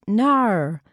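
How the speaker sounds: "No" drawn out with an R-colored ending, nohr; Australian no. Retold or imitated. Embroidery teacher checking stitches, Australian no. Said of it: "she says it with a R".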